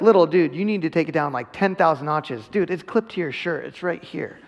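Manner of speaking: loud opening, then drops to a flat matter-of-fact finish; a tired dad telling his son the binky is right there; exasperated parent. Retold or imitated. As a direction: scold the kid, half amused, half fed up. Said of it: "we, as parents, are like".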